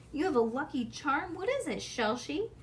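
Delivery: a touch of high, eager wonder; rising, a little out of herself with curiosity; lightly voiced thrilled girl; excited. A narrator's reading. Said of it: "she said".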